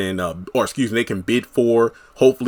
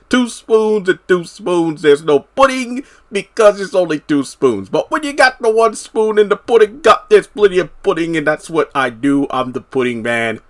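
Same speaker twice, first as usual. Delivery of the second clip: higher, rambling comic Cosby voice; higher jokey Cosby riff with a squeaky meow; Bill Cosby impression; 6 semitones higher than usual. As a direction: ham up a Cosby-style sermon on pudding. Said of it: "it sounded like he was kinda doing a Cosby thing".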